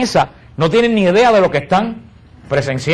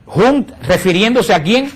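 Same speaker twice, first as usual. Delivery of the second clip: ordinary talk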